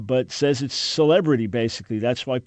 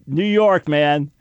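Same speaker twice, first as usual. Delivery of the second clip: New Yorker swagger; 2 semitones higher, 5 dB louder, slower than usual. Retold or imitated. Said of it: "meaning I'm a New Yorker".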